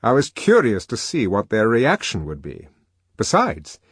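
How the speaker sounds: put-on lively young man voice; voiced character, animated; Helmholtz voice.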